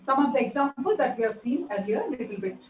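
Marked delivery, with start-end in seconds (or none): 2.1-2.6 faint, low-level speech; barely audible. Real, not acted. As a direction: speak barely above a murmur. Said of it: "your voice is very low".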